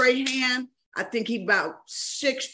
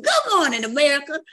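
Michael Strahan's greeting; 6 semitones higher, 4 dB louder, faster than usual. Retold or imitated. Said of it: "just every morning come through".

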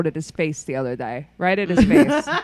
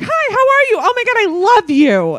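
very high, squeaky cartoon mouse voice; Mickey Mouse voice; 13 semitones higher, 7 dB louder than usual. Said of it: "like, a Mickey Mouse voice".

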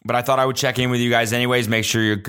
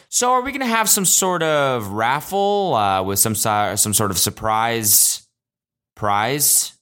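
half-mocking impression of the distracted driver; chatty Uber driver on a call; slower than usual. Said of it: "she'd go".

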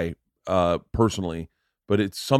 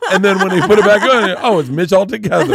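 laughing through it; 10 semitones higher, 10 dB louder than usual. Real, not acted. Retelling joke, laughing hard.

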